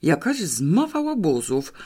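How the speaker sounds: a lightly voiced bitter grumble under the breath; bitter mutter. Mr Chabrowicz grumbling about the vandals, a bitter mutter. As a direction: grumble it to yourself, resentful. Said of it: "mruknął z rozgoryczeniem pod nosem".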